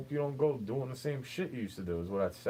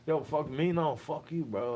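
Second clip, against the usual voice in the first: higher, indignant comeback; heated retort; 5 semitones higher than usual. Real, not acted. Arguing with someone who blames him, indignant retort. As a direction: fire it right back, half laughing. Angry back-and-forth.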